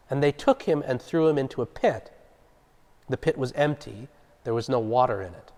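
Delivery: clear, deliberate Bible narration; measured public reading with firm emphasis; scripture reading. A narrator's reading. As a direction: read the passage aloud, strong at each new sentence. Reads scripture passage aloud.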